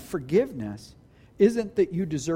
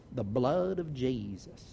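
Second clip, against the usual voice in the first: slow, low and soft; hushed reverence; 7 semitones lower, 8 dB quieter, slower than usual. Real, not acted. Preacher restoring weight to a mocked phrase, hushed reverence. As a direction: draw it out quietly, with awe.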